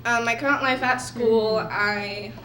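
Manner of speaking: nervous, shaky voice. Real, not acted. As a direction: voice trembling with nerves. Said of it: "sorry, my voice is shaking. I'm nervous".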